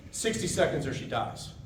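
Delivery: assertive demand. Shown as a demonstration. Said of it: "Assertive voice sounds like this".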